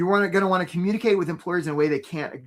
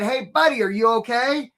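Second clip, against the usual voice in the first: raised, higher voice hailing someone from a boat; mock calling out; 5 semitones higher, 3 dB louder than usual. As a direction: call out to check on them, half in earnest.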